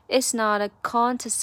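"It's not a contest" run together, stress on con; carefully linked demo of "It's not a contest"; linked speech demo. Shown as a demonstration. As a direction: link "not a" smoothly into a punched "contest". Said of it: "有这么三个连读要注意一下".

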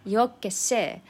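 brusque, dismissive tune on yo qué sé; impatient yo qué sé. Shown as a demonstration. Brushing off a friend's question, impatient and brusque. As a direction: toss it off as if annoyed. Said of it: "this intonation is a little bit strong".

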